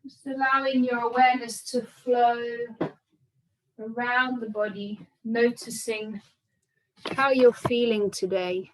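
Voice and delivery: calm, unhurried meditation guidance with long pauses; measured yoga-teacher breathing cues; guided meditation. Real, not acted. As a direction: guide them gently into body and breath, leaving space between phrases. Guides breath and body awareness.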